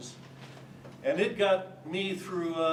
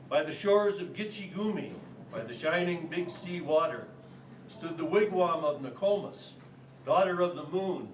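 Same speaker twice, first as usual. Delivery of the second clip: rhythmic verse in short, separated phrases; poem recitation. Acted. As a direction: recite it line by line for a poetry quiz. Recites quiz poem for audience.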